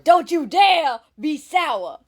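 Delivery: a touch of Big E, high and slow; lightly imitating Big E. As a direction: repeat his catchphrase in mild mock style. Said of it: "it's an imitation of him".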